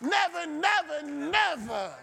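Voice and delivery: high, emphatic sermon delivery; rousing preacher in full cry; full-force preaching. Real, not acted. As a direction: preach it hard with ringing repeats. Preacher drives home repeated promise.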